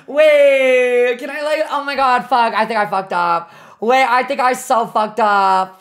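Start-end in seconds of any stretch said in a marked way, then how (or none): 0.1-1.2 high, loud frantic waits; panicked pleading. Real, not acted. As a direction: beg to take it back. Panicking to take answer back.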